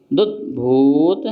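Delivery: दुद्भूत, ऊ in भू drawn out; long ऊ. Shown as a demonstration. Teacher demonstrating a long भू in दुद्भूत. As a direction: pull the भू of दुद्भूत long and slow. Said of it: "भा में ऊ लगा है तो थोड़ा खींचो".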